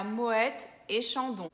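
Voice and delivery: Moët with the final T sounded; French pronunciation. Shown as a demonstration. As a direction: say "Moët et Chandon" in French, T of Moët audible. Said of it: "na palavra Moët a gente fala o T". ("Moët" com o T pronunciado, à francesa)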